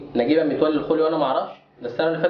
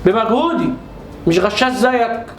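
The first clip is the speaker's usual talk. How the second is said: slow, cutting jab; pointed retort; 4 semitones higher, slower than usual. Acted. Father jabbing back at his son, slow and cutting. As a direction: lean on every word to sting.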